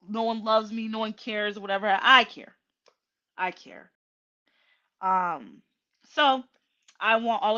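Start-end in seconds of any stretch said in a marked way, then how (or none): 2.0-2.6 louder, firm insistence; I care, declared loud and firm; emphatic. Real, not acted. Insisting she cares for viewers. 3.4-3.9 softer, tender echo; soft repeat. Real, not acted. Repeats it softly to viewers.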